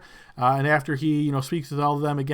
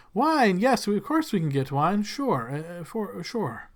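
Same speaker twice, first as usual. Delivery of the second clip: fawning servant; 3 semitones higher than usual. Acted. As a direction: gush over the lord's name. Servant hesitates about wine.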